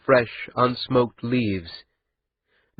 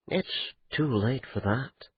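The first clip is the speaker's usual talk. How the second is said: exhausted; 8 dB quieter than usual. A narrator's reading. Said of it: "Mostly he sounded exhausted".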